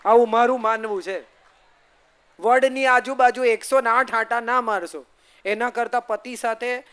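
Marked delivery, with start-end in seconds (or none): 0.1-1.2 આવું મારું માનવું છે said again louder, with force; insisting firmly on her own view; emphatic repeat. Shown as a demonstration. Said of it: "repeated for emphasis".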